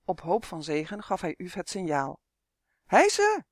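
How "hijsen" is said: very high, loud elf shout; piercingly high acted yell; blaring. A narrator's reading. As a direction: blare out the command like a trumpet. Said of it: "tetterde de elf weer".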